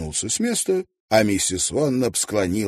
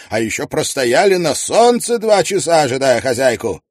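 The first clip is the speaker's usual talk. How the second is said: brisk, higher, louder voice of a confident gentleman; Tietjens voiced; 8 semitones higher, 8 dB louder, faster than usual. Tietjens advising Mrs Wannop on her cart, brisk and confident. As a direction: rattle off the practical advice with assurance.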